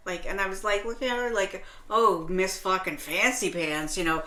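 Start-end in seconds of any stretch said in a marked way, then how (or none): 1.9-4.2 scornful mockery. Mocking the snooty shopper's refusal.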